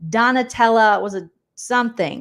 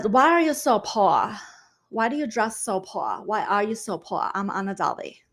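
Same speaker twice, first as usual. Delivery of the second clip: put-on T-Core, British accent. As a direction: imitate a played-up British speaker. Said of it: "That's T-Core".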